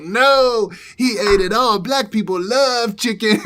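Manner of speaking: high, loud, slow put-on voice; imitating the guy. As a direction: insist it like an obvious fact. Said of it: "He's like".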